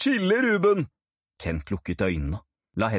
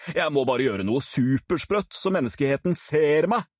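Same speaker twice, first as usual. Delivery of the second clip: put-on brash show-off boy, a bit higher; boastful Kent; 6 semitones higher than usual. Cocky Kent boasting to Ruben about becoming famous. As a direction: brag like a would-be celebrity. Kent planning a crazy stunt.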